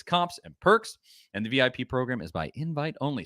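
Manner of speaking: emphatic podcast ad read; live sponsor plug with lifted catchphrases. Acted. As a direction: sell the offer, punching key phrases. Reads sponsor ad.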